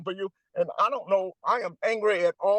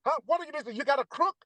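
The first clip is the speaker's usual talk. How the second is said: higher, incredulous challenge to undecided voters; exasperated scolding; 6 semitones higher than usual. Real, not acted. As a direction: scold them in disbelief.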